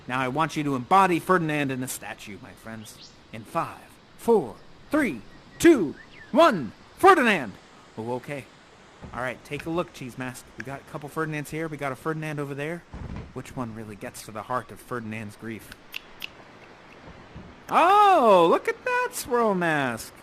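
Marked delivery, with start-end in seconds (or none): 3.4-7.5 loud, punched countdown to the name; rising countdown call. Real, not acted. Counts down to a statue pose. 17.7-20.1 high, loud, drawn-out oh; impressed exclamation. Real, not acted. Reacts admiringly to a mask.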